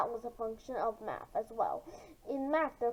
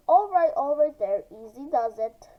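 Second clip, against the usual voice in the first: louder, firm call to settle down; teacher calling out; 6 dB louder than usual. Acted. Teacher stepping between two arguing students, firm call. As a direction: step in and stop them.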